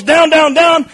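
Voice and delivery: sharp shouted order to get down; sergeant yelling. Retold or imitated. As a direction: bark it like a range sergeant. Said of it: "if he yells".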